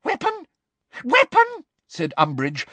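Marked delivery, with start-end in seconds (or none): 0.0-0.5 high, keen echo of the word; Weapon? as a high, eager question; eager surprise. A narrator's reading. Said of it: "eyes seemed to pop with excitement". 1.0-1.6 higher and louder, gleeful; Weapon? repeated high, loud and thrilled; excited repeat. A narrator's reading. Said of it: "eyes seemed to pop with excitement".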